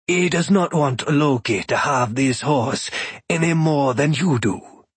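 slow, courteous stranger, lightly voiced; a hint of a proud god introducing himself; unhurried, resonant-toned foreign god, lightly done; calm thunder god. Shango answers.

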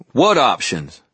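high, loud indignant demand; sharp angry retort. Acted. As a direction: challenge the council outright. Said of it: "Ebenezer demanded".

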